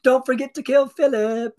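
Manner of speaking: mock carefree delivery of a grim order; said too lightly. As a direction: toss off a dark line like a cheerful reminder. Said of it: "you shouldn't be saying that so lightly".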